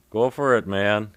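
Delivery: a loud, high, friendly shout from a passing car; cheering shout to a stranger. Acted. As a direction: yell it out the window as encouragement. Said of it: "he shouted".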